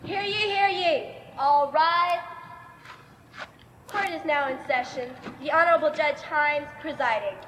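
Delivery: lightly voiced court crier; royal herald. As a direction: announce it like a herald. Court crier opens session.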